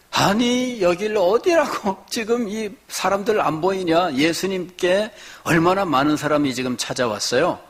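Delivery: lightly voiced disciples shooing the parents away; disciples scolding. Disciples scolding parents who bring children, mock scolding. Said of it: "제자들이 꾸짖은 거예요".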